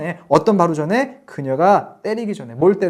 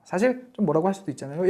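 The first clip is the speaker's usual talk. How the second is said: ordinary talk, nothing marked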